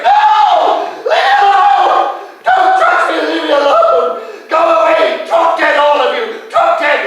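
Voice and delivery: shrieking, very high and loud; screaming. Retold or imitated. Mother shrieking at the men breaking in. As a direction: scream with everything you have. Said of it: "she was in the bathroom going".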